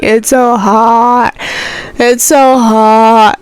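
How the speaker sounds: drawn-out mock complaint, very slow; annoyed complaint. Parents keep complaining about summer heat, mock annoyed. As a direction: imitate a grumble, stretching SO and HOT. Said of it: "my dad and mom were getting so annoyed".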